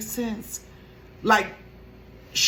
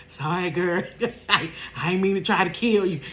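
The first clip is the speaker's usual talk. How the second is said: laughing apology; 3 semitones lower than usual. Shown as a demonstration. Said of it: "That's how you say".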